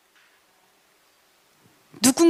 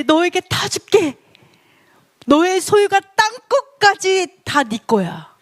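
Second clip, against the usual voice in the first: higher, grand declaration with drawn-out words; God proclaiming; 4 semitones higher than usual. Acted. Preacher voicing God to his enthroned Son, grand proclaiming. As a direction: pronounce it like a king granting everything to his heir. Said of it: "뭐라고 하시냐면 이렇게".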